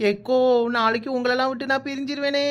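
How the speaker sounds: mock wail breaking into giggly sobs; hammed-up crying. Bride to friends on parting, hammed-up crying. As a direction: wail it so it could be crying or laughing. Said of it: "ஏட்டி, அழுறியா சிரிக்கிறியா".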